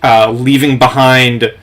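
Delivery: slow, measured scene setting; game master narration. Acted. Game master describes the revenant exploding to players, measured storytelling. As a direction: tell it with deliberate dramatic pauses.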